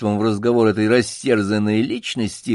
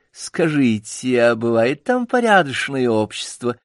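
медленно, жеманно выговаривая; изнеженная дама спрашивает; 3 semitones higher than usual. Acted. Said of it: "жеманно спросила Левретка". (жеманно, растягивая)

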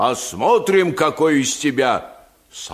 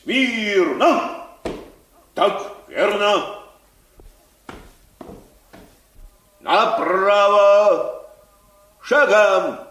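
stiff barking toy soldier; 4 semitones higher, slower than usual. Acted. General drills the soldier.

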